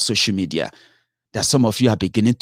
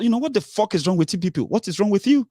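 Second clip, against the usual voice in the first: exasperated outburst; 10 semitones higher, faster than usual. Real, not acted. Ranting at online followers.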